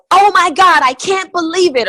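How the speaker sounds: high, loud gushing squeal; over-the-top excitement. Retold or imitated. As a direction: gush like a giddy new entrepreneur. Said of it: "this unbelievable excitement where they go".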